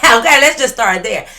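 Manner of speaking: laughing through the words. Real, not acted. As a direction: chuckle while saying it. Laughing at own joke.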